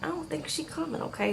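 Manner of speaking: a lightly voiced sympathetic waitress; pitying waitress. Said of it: "the waitress is like".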